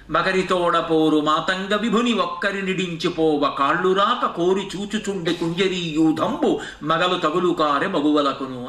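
connected metrical chant; verse recitation. Acted. Preacher quoting Potana's verse on the elephant's fight, metrical recitation. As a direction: recite it in rhythm, stretching the later phrases.

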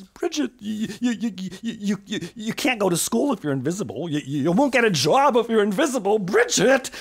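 high, loud sputtering alarm; alarmed stammer. Acted. Mother sputtering in alarm at invisible Bridget.

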